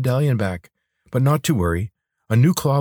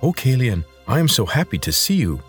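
mildly delighted lizard, pitch raised; happy greeting; 5 semitones higher than usual. Acted. Lizard greets Kalian after knocking him down, happy. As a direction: greet a master with lifted, joyful pitch.

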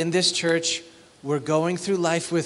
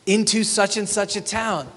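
higher mock swagger; arrogant boast; 3 semitones higher than usual. Pastor mocks a traveling merchant, smug. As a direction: boast smugly, lightly hammed. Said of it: "Do you feel it?".

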